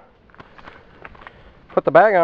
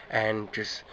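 voice crack; 2 semitones lower than usual. Real, not acted. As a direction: voice cracking mid-sentence. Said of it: "voice crack again".

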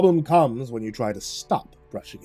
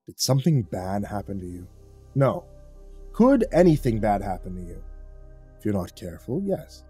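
lower, softer, calm rebuke; gently; 5 semitones lower, 5 dB quieter than usual. A narrator's reading. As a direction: soothe him like a steady elder. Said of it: "Gently, he said".

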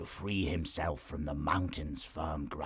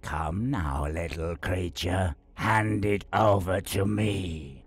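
commanding; 4 semitones higher, 5 dB louder than usual. Acted.

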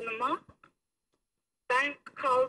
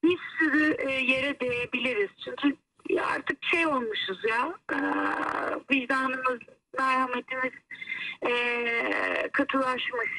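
over the phone. Real, not acted. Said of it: "hoparlöre aldım seni".

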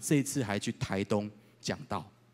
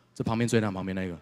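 ordinary talk, nothing marked

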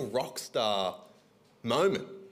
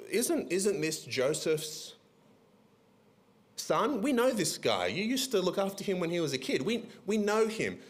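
much higher, rising excitement, "We know this guy"; excited crowd; 7 semitones higher than usual. Retold or imitated. Preacher voices the hometown crowd, excited and much higher. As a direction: gush like a hometown crowd spotting their boy. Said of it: "They were very excited".

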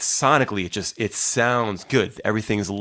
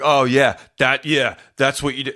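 louder, higher mock indignation; aggressive comeback; 4 semitones higher, 5 dB louder than usual. Online stranger arguing back, mock aggressive. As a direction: imitate someone getting worked up. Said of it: "really aggressive and just weird".

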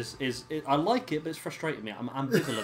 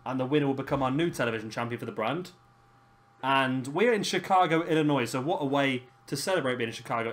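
card announcer. Acted. Host announcing the evening's matches to viewers, announcer voice. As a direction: run through the card like a TV host.

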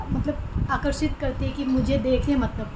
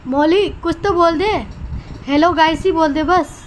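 loud, higher coaxing, slowing at the end; 3 semitones higher, 4 dB louder than usual. Real, not acted. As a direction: coax the bird into saying hello. Coaxing the bird to talk. (चिड़िया को बोलने के लिए मनाना)

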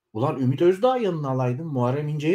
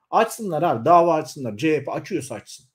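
angry outburst; 4 semitones higher, 3 dB louder than usual. Real, not acted. Ranting at the party leadership.

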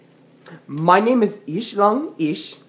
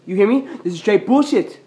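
mock angry rant; 3 semitones higher, 3 dB louder than usual. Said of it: "I'm very angry".

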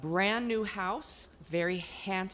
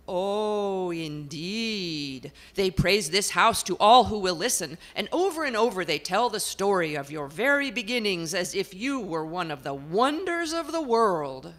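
portrait lady; 6 dB louder than usual. Acted. Portrait complains to the house about her people. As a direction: complain at length, put-upon.

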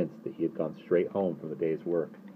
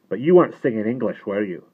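louder, higher, probing question; sudden sharpness; 5 semitones higher, 9 dB louder than usual. A narrator's reading. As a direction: pounce on the boy with suspicion. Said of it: "Then he sharpened suddenly".

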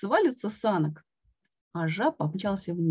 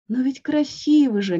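insisting; 5 semitones higher, 6 dB louder than usual. A narrator's reading. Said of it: "не отступал Квак".

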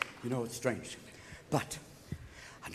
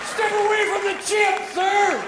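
high, loud order; commanding agent shout; 8 semitones higher, 4 dB louder, slower than usual. Retold or imitated. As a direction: bark it like a bodyguard. Secret Service ordering.

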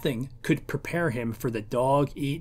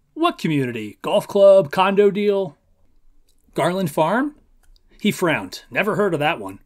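story reading. A narrator's reading. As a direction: read the novel passage aloud, lightly voicing the characters. Reads novel passage aloud.

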